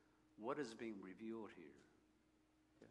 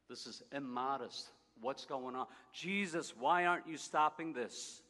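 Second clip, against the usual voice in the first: indignant, raised voice, pushing higher on Jesus; shocked bystanders calling out their outrage; offended outcry; 4 semitones higher, 12 dB louder than usual. Acted. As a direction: protest like a scandalised onlooker. Onlookers offended at the scene.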